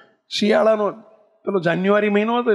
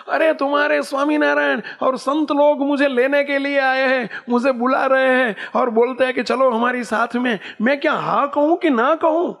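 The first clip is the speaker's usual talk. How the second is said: put-on excited old woman; 6 semitones higher than usual.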